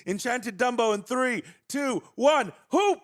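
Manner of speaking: excited countdown. Real, not acted. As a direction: count it down like a reveal. Countdown before opening the card.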